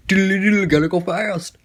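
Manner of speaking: hammed-up hedgehog racing off; Sonic. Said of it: "Like, he went Sonic".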